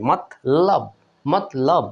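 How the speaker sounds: মতলব said as mot-lob, no vowel after the t; silent vowel. Shown as a demonstration. Teacher showing the vowelless t, split mot-lob. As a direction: close the t in মতলব before the l. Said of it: "হসন্ত ব্যবহার করে উচ্চারণ হয়েছে".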